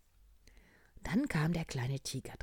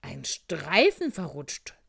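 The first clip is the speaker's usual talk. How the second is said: loud, raised doctor's cry; called-out diagnosis; 4 semitones higher, 13 dB louder than usual. Acted. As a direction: call out your discovery, punching the key word. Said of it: "rief Doktor Walter Frosch". (laut ausgerufene Diagnose)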